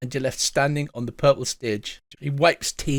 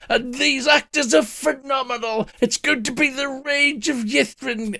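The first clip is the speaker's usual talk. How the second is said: flamboyant director; 8 semitones higher than usual. Acted. Flamboyant ghost director voiced.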